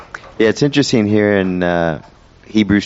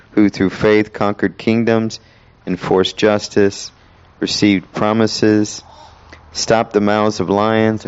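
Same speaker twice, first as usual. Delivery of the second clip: slow, measured reading voice; solemn Bible reading, unhurried; slow scripture reading; 3 semitones higher, slower than usual. Acted. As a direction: linger over each phrase. Reads Hebrews eleven slowly.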